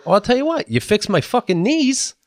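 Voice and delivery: comic answers his doctor with a cheeky deal; mock bargaining. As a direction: lay down terms with a grin. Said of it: "And I go".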